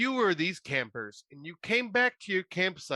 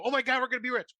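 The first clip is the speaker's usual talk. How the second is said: high, gushing fake joy; gleeful idiot parody; mock giddy excitement; 9 semitones higher, much faster than usual. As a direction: ham up the campers' dumb glee. Mocking the campers' reaction.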